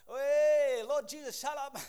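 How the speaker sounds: sudden loud mock yell at the kids. Exasperated parent yelling at whining kids, loud mock shout. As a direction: bark it like a fed-up parent half joking. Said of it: "It's like".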